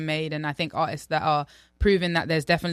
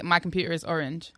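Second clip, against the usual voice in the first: understated British demo line; British accent; 4 dB quieter than usual. Shown as a demonstration. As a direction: own British accent, shown for copying. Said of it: "Okay, say".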